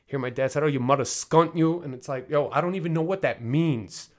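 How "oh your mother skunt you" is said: louder imitation of a British dad scolding; mock British accent, a dad's rebuke; thick British accent. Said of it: "my dad has a very thick British accent".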